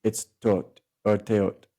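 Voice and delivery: Tot or Teot said slowly and carefully; native pronunciation. Shown as a demonstration. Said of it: "how the people pronounce it".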